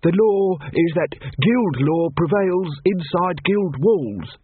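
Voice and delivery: high, slow assassin voice; nervous assassin. A narrator's reading. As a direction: spell it out slowly, a touch nervous. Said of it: "The assassin smiled nervously at him".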